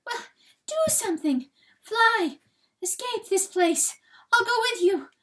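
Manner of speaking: high, loud, frantic begging; frantic pleading. A narrator's reading. Hen begging rooster to escape, high frantic plea. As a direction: plead with him to flee, high and desperate. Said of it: "in her frustration".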